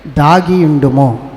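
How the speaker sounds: దాగి ఉండుము drawn out slowly for the crowd to repeat; slow, deliberate prompt for the congregation; slow call-and-response line. Shown as a demonstration. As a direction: model దాగి ఉండుము slowly so they echo it. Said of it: "చెప్పాలి".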